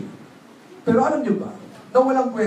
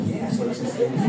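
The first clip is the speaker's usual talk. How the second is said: whispered in relief; a relieved whisper sneaking into the shop; sneaky whisper; 6 semitones higher, 3 dB quieter than usual. Retold or imitated. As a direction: whisper it so no clerk hears. Shopper sneaks in unnoticed.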